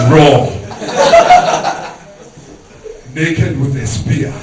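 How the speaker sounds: a hint of a solemn father; stern dad. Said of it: "He's like".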